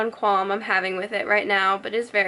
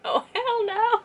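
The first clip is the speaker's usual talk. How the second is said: mock furious Edward; 11 semitones higher than usual. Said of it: "He's just like".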